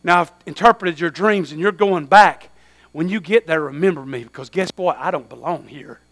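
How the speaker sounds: a hint of Joseph, softened. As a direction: say it low and humble. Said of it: "Joseph said".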